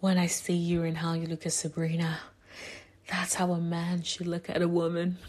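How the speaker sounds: hushed, soft, half-whispered delivery. Continuing an impression of a woman who always seems to half-whisper, half-whispery impression of her. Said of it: "it's almost like she whispers all the time".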